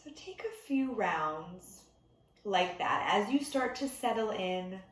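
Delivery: unhurried meditation teacher, long pauses between instructions; guided meditation. Real, not acted. Meditation teacher settling listeners into breath before bed, calm guided delivery. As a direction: ease them gently into stillness, leaving room to breathe.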